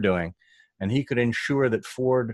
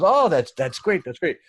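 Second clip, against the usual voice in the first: much higher, louder delight; light up at the idea; mock thrilled boss; delighted Alan; 7 semitones higher, 4 dB louder than usual.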